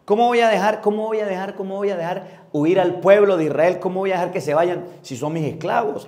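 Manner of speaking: stubborn Pharaoh. Acted. Preacher voices Pharaoh refusing to free Israel, mildly acted stubborn protest. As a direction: protest as a Pharaoh clinging to his slaves. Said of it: "Así estaba el faraón".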